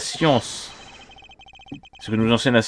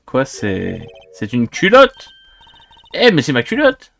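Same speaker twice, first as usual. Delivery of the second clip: shocked outcry; 5 dB louder, slower than usual. Acted. The girl spotting her own stolen panties, shocked and louder. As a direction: yelp it in sudden surprise.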